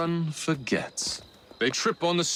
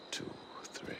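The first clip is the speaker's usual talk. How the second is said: faded count; 18 dB quieter than usual. Acted. Counting dance steps softly.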